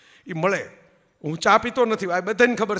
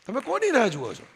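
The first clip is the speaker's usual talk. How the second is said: higher, full voice, કોની hit hard then falling; pointed challenge; 4 semitones higher than usual. Shown as a demonstration. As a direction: throw the question straight at the audience. (ઊંચા અવાજે સીધો પડકાર)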